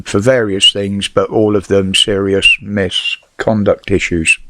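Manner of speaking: whistling s from loose false teeth. Real, not acted. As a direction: let the s sounds whistle through dentures. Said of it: "Sorry about the whistling".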